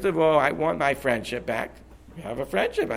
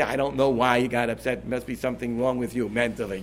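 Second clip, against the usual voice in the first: dismissive non-apology; 5 semitones lower than usual. Shown as a demonstration. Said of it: "You don't have to say".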